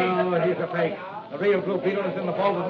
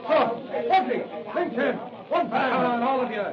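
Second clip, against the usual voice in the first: raised, urgent fighting shouts; shouting; 4 semitones higher than usual. Acted. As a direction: bark orders over the brawl. Crooks shout during fight.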